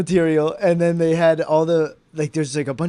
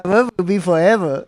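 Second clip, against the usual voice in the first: mock Asian accent; 3 dB louder than usual. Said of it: "Why are you doing an Asian accent".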